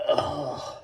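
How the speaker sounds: disgusted groan. Real, not acted. Disgusted at his own pizza.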